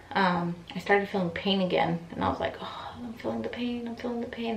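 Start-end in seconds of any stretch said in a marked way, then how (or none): 2.6-4.6 high, small complaining voice; soft high-pitched moan in words; mock pained whine. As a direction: re-enact dread of returning pain, softly. Acting out pain returning.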